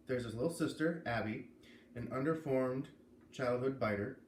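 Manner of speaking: steady, clear read-aloud of a book blurb; story narration. A narrator's reading. A reader sharing a novel's blurb, in story narration. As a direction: read the back cover to your listeners.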